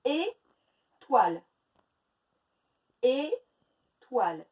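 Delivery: Étoile stretched slowly, two clear beats; slow syllables. Shown as a demonstration. Teacher counting syllables aloud, slow and clear. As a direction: drag out Étoile, beat by beat. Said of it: "Deux syllabes".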